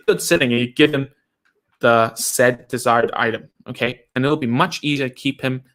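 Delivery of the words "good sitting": acted praise. You say.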